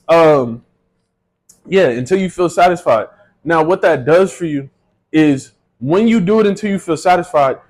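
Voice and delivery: normal talking voice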